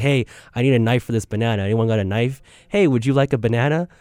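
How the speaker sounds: a lightly played bumbling goofball; bumbling act. Retelling his goofy banana act to the office, mild bumbling. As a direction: ham up the clueless banana guy, only a little. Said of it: "bumbling sort of nonsensical act".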